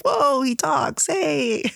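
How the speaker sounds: high, drawn-out playful surprise; mock amazement. Everyone reacting to the silent character talking, amazed.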